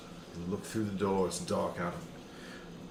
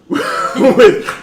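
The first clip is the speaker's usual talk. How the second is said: laughing; 11 semitones higher, 14 dB louder than usual. Real, not acted. Laughing mid-sentence.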